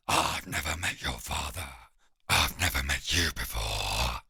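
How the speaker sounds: deep bewildered beast pleading; baffled hound. Acted. Scared hound protests to swordsman, deep and baffled. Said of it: "utterly baffled".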